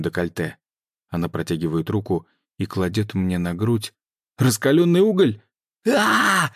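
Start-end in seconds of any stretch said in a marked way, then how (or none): 4.4-5.4 sudden high yell of pain; hot coal shout. Acted. Burning pain cry. 5.9-6.5 high, loud pained scream. Acted. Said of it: "заорал я от боли".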